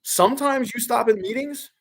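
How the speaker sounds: high, slow, incredulous what; can't believe what you just heard; a sharp jump up in pitch on what; stunned disbelief. Real, not acted. Reacting to the coach's answer.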